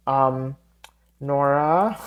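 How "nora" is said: Nora drawn up like calling out, then Fatehi falling; as if calling her. Real, not acted. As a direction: say the name as though summoning someone, without shouting. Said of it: "It sounds like I'm calling her".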